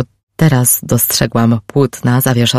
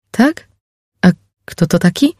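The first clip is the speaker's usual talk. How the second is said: surprised; 5 semitones higher than usual. Acted. Liz surprised, asking who.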